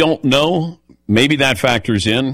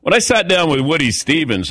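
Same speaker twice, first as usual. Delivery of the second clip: higher-pitched name-dropping; mock know-it-all; 4 semitones higher than usual. Trying to fit in with racing people, mock know-it-all. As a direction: play at sounding like an insider. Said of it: "trying to sound like I knew".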